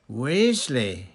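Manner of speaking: thrilled, forceful summons; delighted cry. A narrator's reading. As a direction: cry out to an assistant in glee. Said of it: "cried Fudge".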